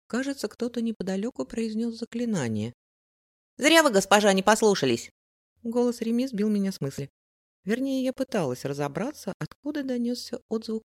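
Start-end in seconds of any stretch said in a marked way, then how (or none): 3.6-5.1 put-on eager, loud young boy; a street kid calling out. A narrator's reading. Boy Remi calls out.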